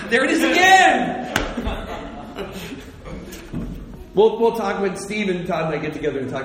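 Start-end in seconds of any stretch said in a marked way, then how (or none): 0.1-1.3 loud, high self-mocking yell; mock exasperated outcry. Real, not acted. Preacher catching his own repeated word, mock exasperation. 1.4-4.1 soft breathy laughter; laughing at himself. Real, not acted. Preacher amused by his own verbal habit, soft laugh.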